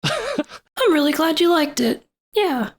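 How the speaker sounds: high, slow tiny Bill Clinton; Bill Clinton impression. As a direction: squeak it like a mini Clinton. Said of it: "sound like a miniature version of Bill Clinton".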